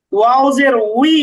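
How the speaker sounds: "উই" as a rounded wi; teacher's model of "উই", w sliding into a long-toned i; careful waw sound. Shown as a demonstration. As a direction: say "ওয়াও জের উই" deliberately, gliding from w to i. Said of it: "এভাবে উচ্চারণ করতে হবে".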